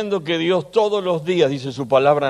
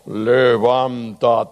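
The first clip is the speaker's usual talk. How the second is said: slow, solemn low "Levántate"; deep God voice; 4 semitones lower, much slower than usual. Shown as a demonstration. Pastor demonstrates the low voice of God, slow. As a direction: draw out "Levántate" like a divine summons. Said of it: "Y pongo otra voz".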